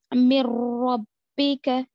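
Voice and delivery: slow, loud मिर रब्बिका with the r doubled; careful Quranic reading of मिर रब्बिका; Tajweed recitation. Shown as a demonstration. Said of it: "नून साकिन को छोड़कर".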